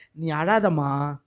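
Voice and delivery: gentle consoling. Acted. The Lord telling weeping Mary not to cry, gentle consoling. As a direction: soothe her tenderly, drawing the words out.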